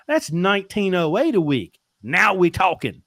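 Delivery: high, loud delight at the payoff; triumphant. Retold or imitated. Triumphant at the better figure.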